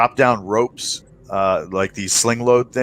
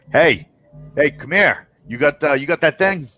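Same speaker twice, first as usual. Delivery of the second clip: contact Stanley's voice; 5 semitones higher than usual. Acted.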